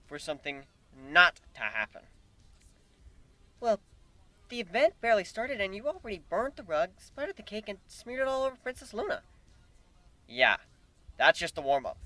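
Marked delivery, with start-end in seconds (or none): 3.6-9.2 higher exasperated mare voice; scolding pony. Acted. Twilight scolding the human, exasperated. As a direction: list the damage reproachfully.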